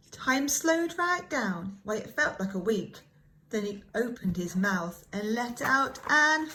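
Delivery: lilting, expressive storybook read-aloud; rhyming picture book told with wide-eyed wonder; reading to children. Acted. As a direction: read it like bedtime for little ones.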